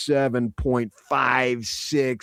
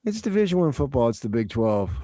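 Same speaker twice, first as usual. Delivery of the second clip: quick, passionless read of a slogan; no passion; faster than usual. Shown as a demonstration. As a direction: rattle it off without any passion, dropping at the end. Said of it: "No passion there".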